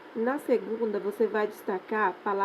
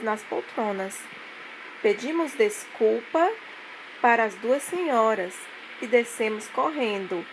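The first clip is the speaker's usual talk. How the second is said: reads the fragment aloud like a storybook; story reading. Acted. Teacher reading a textbook story to pupils, storybook voice. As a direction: tell the little story to the class.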